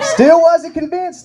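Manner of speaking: high, slow, stretched-out "Still wasn't convinced"; high mock refrain. Shown as a demonstration. Comic sings the punchline refrain to the crowd, high and slow.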